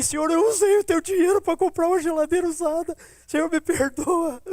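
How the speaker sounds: high, loud wailing plea to the Lord; imitating a big man crying aloud as he confesses; crying prayer. Pedrão confessing to God, crying out loud. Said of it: "começou a chorar aos gritos".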